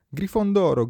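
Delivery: verdetto gridato, alto e forte; grido del cappello. A narrator's reading. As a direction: grida il nome della casa alla sala. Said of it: "gridò il cappello". (verdetto gridato)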